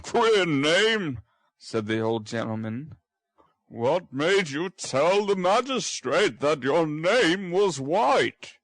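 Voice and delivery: gently probing; stern old gentleman. Acted. Brownlow asks the boy why he lied.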